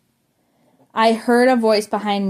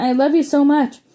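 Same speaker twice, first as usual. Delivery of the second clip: higher, excited Midwestern fan squeal; mock Midwestern yell; 5 semitones higher than usual. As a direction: gush like a starstruck Midwestern fan. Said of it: "she yelled in the Midwestern accent".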